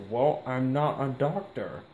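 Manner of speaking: slow, dry deadpan delivery. Retold or imitated. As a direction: say it bone-dry, no emotion. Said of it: "in this super deadpan voice".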